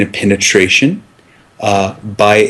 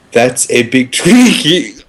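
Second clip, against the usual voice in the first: laughing; 3 semitones higher than usual. Acted. Interviewee breaks up laughing mid-line.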